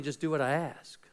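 whispered, gentle instruction; soft whisper. Pretend. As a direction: breathe it like a quiet word from God.

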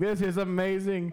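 excited shout. Real, not acted. Reacting to a close match.

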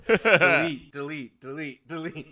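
urgent, loud repeated delete; panic, cut it out now; frantic repeated delete. Real, not acted.

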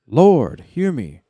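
loud, high dramatic plea; hammy stage actor. Acted. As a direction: cry out to the king. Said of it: "Eomer spoke".

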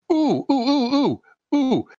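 high delighted ooh-ing, rushing on; excited squeal. Acted. Player to escort, gushing about a hot bath, excited. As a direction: squeal with delight then gush fast.

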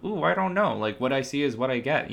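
hint of mimicked cluelessness; clueless baby boomer. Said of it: "they're like".

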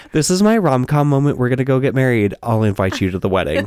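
giddy and rushed, ending in a laugh; giddy rom-com. Pretend. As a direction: gush like a movie heroine. Mock rom-com fantasy.

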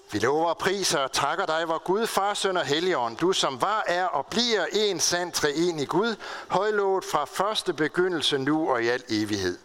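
formal, continuous liturgical recitation; prayer. Real, not acted. Preacher leading the congregation in praise to God, formal prayer.

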